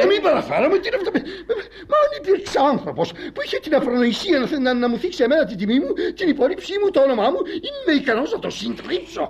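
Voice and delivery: high-pitched, sputtering comic rage; outraged tirade. Acted. Husband defending his honour to wife, outraged.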